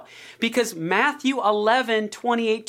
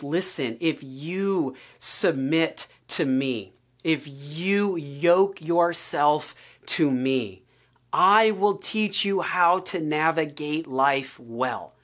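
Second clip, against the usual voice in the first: gentle invitation; 6 semitones lower, slower than usual. Retold or imitated. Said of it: "he goes".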